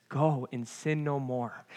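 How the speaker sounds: quiet. Shown as a demonstration. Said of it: "he says".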